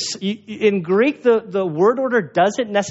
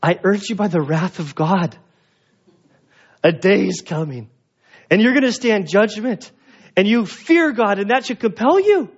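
mock threatening preacher. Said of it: "he doesn't say".

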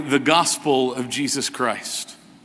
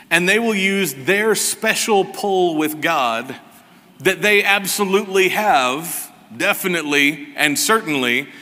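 sarcastic, stressing each claim; heavy sarcasm; 2 semitones higher than usual. Real, not acted. Preacher mocking healing ministries' claims to his congregation, sarcastic. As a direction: lay the mock conviction on thick. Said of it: "don't hear the sarcasm in my voice".

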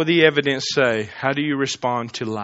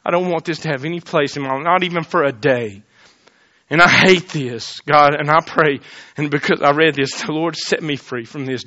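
quiet retold prayer. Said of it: "I said, Lord".

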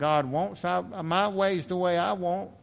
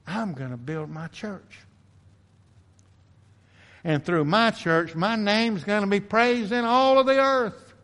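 voice of God; 5 semitones higher, 4 dB louder than usual. Retold or imitated. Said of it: "the infinite creator of the universe has said".

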